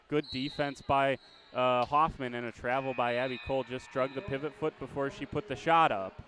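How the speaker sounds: brisk live game call, rising with the action; play-by-play. Acted.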